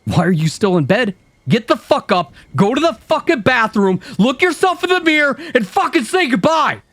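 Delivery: high, loud, sneering, rising to a scream; vicious inner voice. Acted. Cruel inner critic screaming at the narrator in bed, vicious. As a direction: tear into yourself with mounting contempt.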